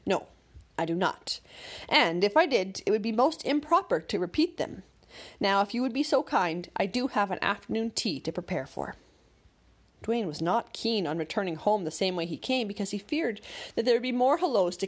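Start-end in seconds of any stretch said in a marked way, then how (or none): 0.0-9.0 severe. Acted. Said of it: "severely said".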